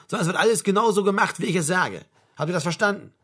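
brief the men, brooking no backtalk; brusque sergeant major. Acted. Sergeant major to his men before the job, brusque briefing.

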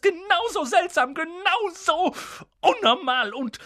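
hohe, keifende Schimpftirade; schimpfend. A narrator's reading. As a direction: lass die Wut aller Jahre raus. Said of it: "fing dann erneut an zu schimpfen". (Tante Petunia schimpft über ihre Schwester)

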